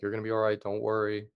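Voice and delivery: calm reassurance to an injured friend; reassuring. Retold or imitated. Friend reassuring a bitten man, calm reassuring tone. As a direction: soothe him, keep it easy. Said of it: "he was just reassuring me".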